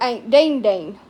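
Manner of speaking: put-on "Aunt Dean Dean" with a D for the J, the name doubled like a toddler; lisping toddler "Aunt Dean Dean", name doubled; childish mispronunciation. Shown as a demonstration. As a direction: say "Aunt Dean Dean" the way a small child mangles Aunt Jean. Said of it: "That's how I'd say it".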